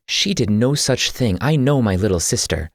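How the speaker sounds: loud, sharp and high, flatly refusing the charge; indignant denial. Acted. Andrea defends her little sister to Y, loud and indignant. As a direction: slam the accusation down.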